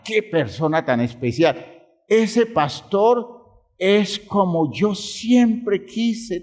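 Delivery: gushing, high-pitched praise; a hammed-up adoring churchgoer; admiring parishioner. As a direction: coo over the pastor like a fan, drawn out. Church people praising the pastor.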